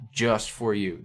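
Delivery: "just" leaned on, then "for you" falling; stress on JUST. Shown as a demonstration. Reviewer shows the emphasis on the italicized word, stressing "just". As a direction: lightly punch "just" in "just for you". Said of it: "So the emphasis on that word".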